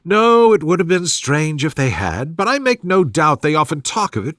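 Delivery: fussy mother. Acted. Mrs Bennet voiced in dialogue.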